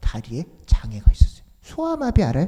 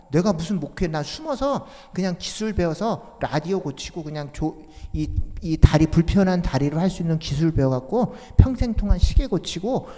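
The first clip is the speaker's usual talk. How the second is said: louder, higher exasperated protest; indignant refusal; 5 semitones higher, 4 dB louder than usual. Retold or imitated. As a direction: push back hard against mother. Son refusing mother's call angrily.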